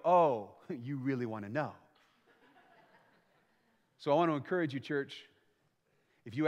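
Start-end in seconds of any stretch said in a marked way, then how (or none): 0.0-1.7 low surprised laugh at being asked for real; chuckle, caught off guard. Retold or imitated. Friend laughs at a sincere question, surprised. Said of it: "And they go".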